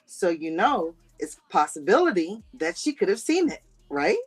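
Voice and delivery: measured mock explanation, dropping off at the end; Marcus. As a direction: lightly mimic him admitting it bit by bit. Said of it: "Good Marcus impression".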